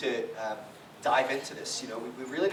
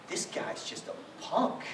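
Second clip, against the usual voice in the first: bitter under-breath thought; 4 semitones higher, 5 dB quieter, slower than usual. Retold or imitated. Angry thought during the service.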